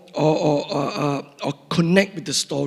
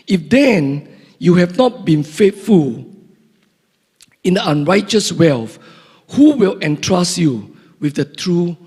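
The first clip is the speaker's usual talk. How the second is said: scripture reading. Acted. Preacher reading Luke to the congregation, measured and deliberate. Reads the parable aloud.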